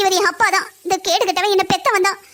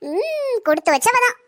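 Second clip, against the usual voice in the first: slow, high, tearful-sounding sneer; father sneers at the daughter he sold; mock pity; 4 semitones higher, slower than usual. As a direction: fake sympathy dripping with scorn.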